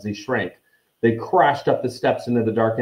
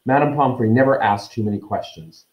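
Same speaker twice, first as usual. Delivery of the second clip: quickly; 3 semitones higher than usual. Acted. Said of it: "said Harry quickly".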